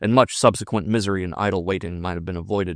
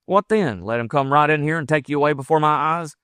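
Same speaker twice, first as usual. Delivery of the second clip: high, raised, heated frontiersman; indignant lover; 7 semitones higher, 4 dB louder than usual. Acted. Lover objecting to his rival taking her, indignant. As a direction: protest hotly, pitch jumping up.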